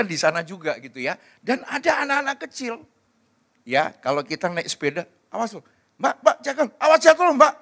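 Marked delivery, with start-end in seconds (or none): 5.3-7.5 high, urgent mock warning; anxious warning. Parent to nanny watching child on a bicycle, anxious warning. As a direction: call out like a fussing parent.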